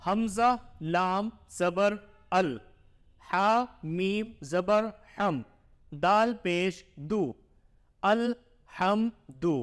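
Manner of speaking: slow sing-song letter-by-letter reading; measured teacher's drill, syllable by syllable; Qaida spelling recitation. Shown as a demonstration. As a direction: chant each letter and vowel sign for the pupil.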